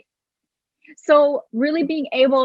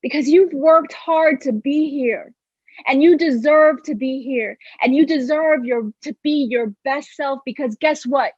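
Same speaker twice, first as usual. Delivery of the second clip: guided meditation. Acted. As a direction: lead them calmly through it. Leads a guided visualization.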